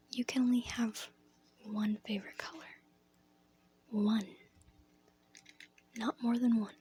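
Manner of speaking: lightly acted teacher, measured with long pauses. Teacher correcting a pupil's paper, lightly acted, halting emphasis. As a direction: lay down the rule piece by piece. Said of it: "She goes".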